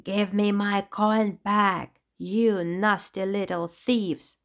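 slow, menacing clown yell; a hint of a raging villain; angry yell. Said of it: "Sparky yelled, his face red with rage".

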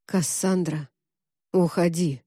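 low, muffled, ominous voice; hollow, frightening. A narrator's reading. Augustus warning Cassandra to leave, low and hollow. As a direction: speak dully, with dread. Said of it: "как-то глухо и страшно сказал Август".

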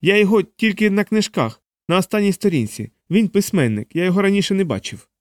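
high, pleading scared man; scared homeowner pleading innocence; frightened man. A narrator's reading.

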